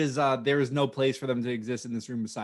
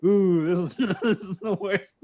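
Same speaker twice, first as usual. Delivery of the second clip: 1 laughing cringe; 4 semitones higher, 4 dB louder, slower than usual. Retold or imitated. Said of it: "And I was like".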